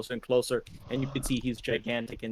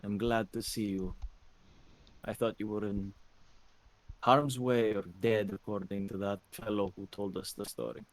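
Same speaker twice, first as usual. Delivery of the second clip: weak voice; 3 semitones lower, 3 dB quieter than usual. Acted. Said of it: "in a very weak voice".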